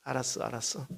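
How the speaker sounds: soft, calm mother's coaxing; mother soothing. Retold or imitated. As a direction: settle a sulking child softly. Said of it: "엄마가 가서 한마디 합니다". (아이를 달래는 엄마처럼 부드럽게)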